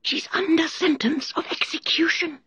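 secretive, anxious rabbit whisper. A narrator's reading. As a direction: whisper it close into her ear. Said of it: "and whispered".

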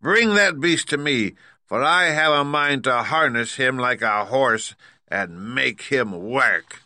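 high, loud witch command; wicked witch. A narrator's reading. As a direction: order the monkeys like a cruel witch. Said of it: "said the wicked witch".

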